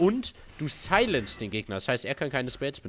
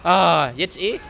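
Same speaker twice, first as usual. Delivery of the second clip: high, loud urgent commands; urgent shouting; 8 semitones higher, 6 dB louder than usual. Real, not acted. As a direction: yell directions fast in panic. Urgent in-game coaching during fight.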